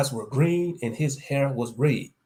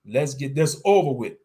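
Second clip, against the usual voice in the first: exasperated outburst; ranting; 3 semitones higher, 7 dB louder than usual. Acted. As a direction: snap it out, impatient. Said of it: "I ranted".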